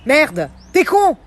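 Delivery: slow, loud angry insult; angry outburst. Real, not acted. Friend misses the pregnancy news, slow loud insult. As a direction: spit each word out slowly, fed up. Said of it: "je m'énerve".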